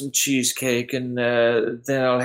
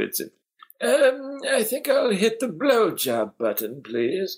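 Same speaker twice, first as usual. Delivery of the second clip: put-on stuffy old person voice, much higher; 8 semitones higher than usual. Joking around with others about a button: stuffy old person voice. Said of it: "You have to say it like a stuffy old person too".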